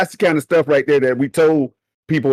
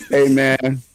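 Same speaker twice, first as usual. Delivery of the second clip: laughing to tears; 3 semitones lower than usual. Real, not acted. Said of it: "Let me wipe the tears out my eyes".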